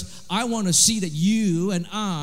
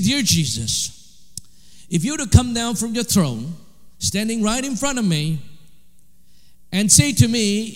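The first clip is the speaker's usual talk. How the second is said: retold bold prayer; 2 semitones higher than usual. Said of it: "this is what he said".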